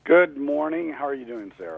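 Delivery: stuffy, blocked-nose voice; congested. Real, not acted. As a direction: speak through a head cold. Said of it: "I'm a little bit congested here".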